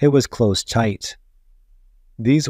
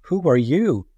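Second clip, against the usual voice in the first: startled gasp; 4 semitones higher than usual. Acted. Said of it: "she gasped".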